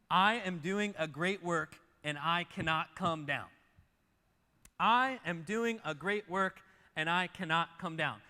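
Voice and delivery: slow, loud, weighty proclamation; emphatic declaration. Acted. Nehemiah's reply to his enemies, slow emphatic declaration. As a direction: declare each word firmly, refusing to budge. Proclaiming the key verse twice.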